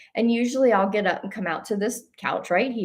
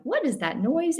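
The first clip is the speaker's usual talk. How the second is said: startled question; 8 semitones higher than usual. Retold or imitated. Startled by noise in meditation.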